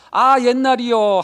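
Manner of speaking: mock lament. Lamenting the past at empty tomb.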